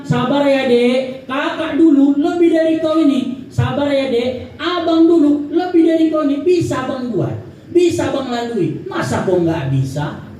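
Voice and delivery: high, preachy, self-satisfied; boastful comparison. Shown as a demonstration. Comforting someone while comparing, condescending and smug. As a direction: talk down to them, bragging about your own trials. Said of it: "Kita bilang".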